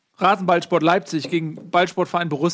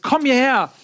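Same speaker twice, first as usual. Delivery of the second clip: high-pitched mock command; gespielter Befehlsruf; 5 semitones higher, much slower than usual. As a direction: call him over, pitch leaping up on "Komm". Kommandiert den Kollegen spielerisch herbei. (gespielt herrischer, hoher Ruf)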